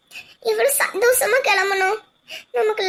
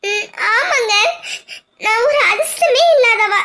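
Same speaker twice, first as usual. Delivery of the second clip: bitter laugh mixed with crying; wife mocking her own bad luck, tearful; laughing through tears. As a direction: laugh miserably at herself.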